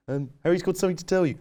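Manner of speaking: very high, silly mock teacher voice; stupid teacher voice. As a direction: squeak it out like a ridiculous teacher imitation. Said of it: "had a voice like this".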